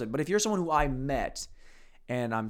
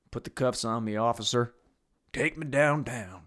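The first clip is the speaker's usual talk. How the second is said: mock arrestee; 3 semitones lower than usual. Playing an arrested man.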